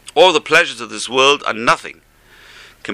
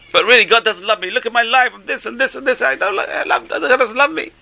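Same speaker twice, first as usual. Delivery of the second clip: higher mock whine, lightly voiced; hammed-up self-pity, much higher; complaining sufferer; 12 semitones higher than usual. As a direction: whine that nobody loves you. Acting a complaining person.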